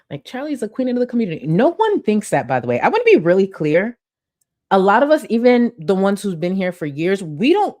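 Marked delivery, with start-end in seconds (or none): 0.2-1.4 mocking quote. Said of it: "She's so bit-, bitter".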